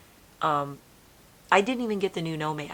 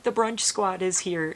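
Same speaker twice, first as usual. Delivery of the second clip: higher and slow, drawn out; playful announcement; 4 semitones higher, 5 dB louder than usual. Retold or imitated. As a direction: announce the deer like guests. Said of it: "I'll be like".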